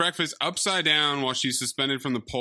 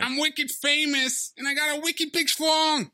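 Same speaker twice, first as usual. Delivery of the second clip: mock Boston brag, pitched way up; Sandler's awful movie voice; 11 semitones higher than usual. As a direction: ham up a dumb, boastful Boston guy, shouting. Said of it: "Sandler is doing a truly awful voice".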